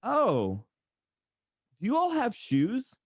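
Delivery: high, condescending outsider asking about shoes; mocking beachgoer. Beachgoer asking a Tennessee teen if he owns shoes, high and mocking. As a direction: sneer out the question like a stunned tourist. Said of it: "And they go".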